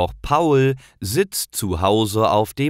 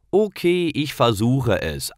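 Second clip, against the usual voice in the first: put-on higher young voice, a little unsure; boy Paul agreeing; 6 semitones higher than usual. Paul answers Karl before trying the skateboard, higher hesitant boy. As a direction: agree to give it a try.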